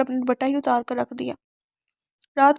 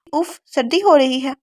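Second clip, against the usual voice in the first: slow, louder shivering cold complaint; 6 dB louder, slower than usual. A narrator's reading. Drenched in cold water, shivering. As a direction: drag it out like you're freezing. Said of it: "وہ بالکل کانپ گئی".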